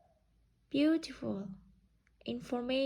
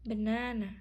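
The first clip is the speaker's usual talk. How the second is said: "Banana" with a strong long middle NA; correct word stress. Shown as a demonstration. Teacher giving an example to practise, "Banana" stressed on NA. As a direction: hit the second syllable of "Banana", ba-NA-na. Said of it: "Let's practice pronouncing word stress correctly".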